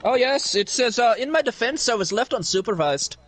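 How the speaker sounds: lightly put-on Irish accent; casual mock Irish brogue for laughs. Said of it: "really good at the accent".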